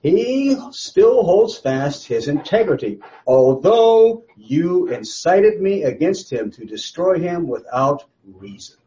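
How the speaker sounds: slow, deliberate, cutting verse reading; pointed dig. Acted. Teacher reads God's words to Satan, slow and cutting. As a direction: let each word land like a jab. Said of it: "he's really gonna put a dig in".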